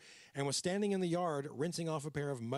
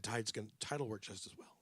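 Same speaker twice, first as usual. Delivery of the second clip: put-on New York accent; 4 semitones lower, 6 dB quieter than usual. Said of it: "I'm doing the New York accent".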